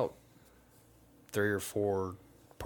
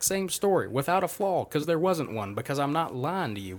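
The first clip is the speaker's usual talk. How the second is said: indignant outburst; 7 semitones higher than usual. Real, not acted. Telling friends how cops kept questioning him, heated and higher. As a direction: vent real frustration at being disbelieved. Indignant about being interrogated repeatedly.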